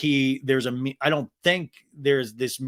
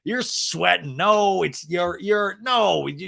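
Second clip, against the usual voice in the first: high, stammering mock backtrack; backpedaling; 5 semitones higher, 4 dB louder, slower than usual. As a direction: imitate a husband scrambling to undo his joke. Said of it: "realizes he's gone too far".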